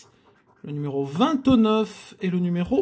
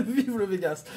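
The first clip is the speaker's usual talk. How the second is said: softer, laughing it out; 6 dB quieter than usual. Real, not acted. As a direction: say it through a laugh. Repeats through laughter.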